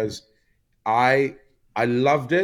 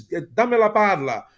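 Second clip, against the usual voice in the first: high, loud retold shout; mock angry shout; 11 semitones higher, 6 dB louder, slower than usual. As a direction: bark the order like a furious veteran. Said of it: "He says".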